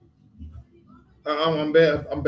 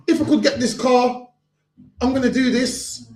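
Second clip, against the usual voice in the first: laughing mock promise; 5 semitones higher than usual. Preacher laughing as he mimics a promise-breaker. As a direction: chuckle while parroting the empty promise.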